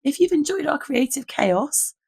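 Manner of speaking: hoarse, croaky voice from a lost voice. Real, not acted. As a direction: talk through a hoarse, croaky throat. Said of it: "my croaky voice".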